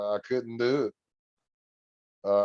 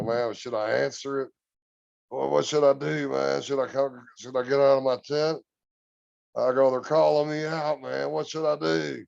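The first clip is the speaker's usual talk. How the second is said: higher, imitated nervous panic; retold panic; 4 semitones higher than usual. Recalling in the tent at night whether to answer, mild retold fear. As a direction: replay the frightened questions with mild panic. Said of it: "So, so I'm just freaking out".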